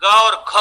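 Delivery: plain ग, then घ with a puff of breath; unaspirated-aspirated contrast. Shown as a demonstration. Teacher showing breath contrast to trainees, ग unaspirated, घ aspirated. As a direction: punch out ग and a breath-heavy घ. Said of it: "अल्प प्राण और महाप्राण".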